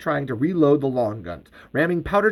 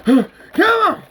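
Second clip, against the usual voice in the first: high, loud battle cry; taunting shout; 3 dB louder than usual. Acted. Bert luring creatures away from friends, taunting shout. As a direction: yell to lure the enemy on.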